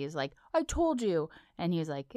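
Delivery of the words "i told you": mildly pouty, higher-pitched quote; pouty retort. Retold or imitated. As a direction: imitate a pouting I-told-you-so. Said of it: "Jake was all pouty".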